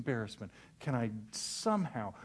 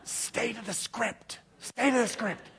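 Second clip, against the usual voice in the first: wife's stern reminder; 8 semitones higher than usual. Retold or imitated. Wife hisses reminder, high voice.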